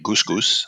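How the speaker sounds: the band name with two long "oo" vowels; band name pronunciation. Shown as a demonstration. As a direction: say the band name as two matching rhymed syllables. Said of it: "That's how you say it".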